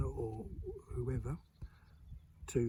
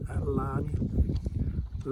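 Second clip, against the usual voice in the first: slow, broad Suffolk phrase; east anglian accent; 5 dB louder, much slower than usual. Shown as a demonstration. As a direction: say it like an old Suffolk local. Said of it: "Learn does not mean that'll learn you".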